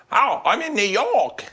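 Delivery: high, thick New York "New York"; New York accent. Retold or imitated. Traveller mocking locals' pronunciation with a New York accent. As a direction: say "New York" like a real New Yorker. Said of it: "You're gonna go".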